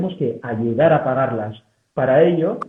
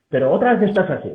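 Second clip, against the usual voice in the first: exasperated, a little higher, scolding; hurtful reproach; 4 semitones higher than usual. Shown as a demonstration. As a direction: sigh it out as a fed-up relative. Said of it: "La deslegitimación hiriente".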